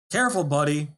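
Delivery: loud warning call; shouting. Acted. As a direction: yell it out the window. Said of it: "he shouted".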